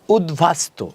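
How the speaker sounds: "উদ্ভাস্ত" said ud-bastu, b fully sounded; b-phala kept. Shown as a demonstration. Teacher giving a new example, "উদ্ভাস্ত" as ud-bastu. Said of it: "অক্ষত থাকবে".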